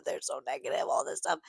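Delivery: high, soft mock-crying whine; retold sobbing. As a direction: imitate sobbing down the phone, small and high. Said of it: "sobbing on the street on the phone".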